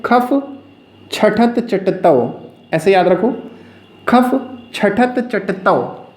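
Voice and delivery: खफ, छठत, चटतौ with pauses between; in parts. Shown as a demonstration. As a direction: chunk it with pauses. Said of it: "इसको ऐसे याद रखो parts में". (खफ छठत चटतौ को टुकड़ों में रुककर बोलें)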